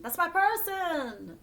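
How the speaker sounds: a high, slow, swooning repeat of that's my person; gushing delight. Retold or imitated. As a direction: reader voices the Leo finding a soulmate, gushing slowly. Repeats it, drawn out and laughing.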